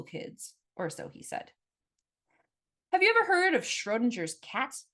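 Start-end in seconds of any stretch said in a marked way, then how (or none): 2.9-4.8 a hint of a surfer sharing a secret; conspiratorial surfer. A narrator's reading. Old surfer Jeff shares a quirky fact with the bartender, lightly conspiratorial. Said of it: "as if sharing a deep secret".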